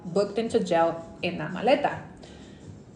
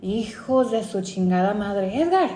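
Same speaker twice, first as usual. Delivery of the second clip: mom yelling; 6 semitones higher than usual. Retold or imitated. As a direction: bark orders at the son like a panicked mother. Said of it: "I will never forget her reaction".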